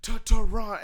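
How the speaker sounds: milk the hometown crowd; hammed-up wrestler announcement; The Rock promo. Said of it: "he's like".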